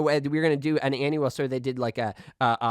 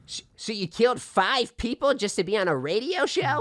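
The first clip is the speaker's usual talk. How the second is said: higher, stammering disbelief; stunned disbelief; 6 semitones higher than usual. Acted. Host confronting the killer, stunned. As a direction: ask in horrified disbelief.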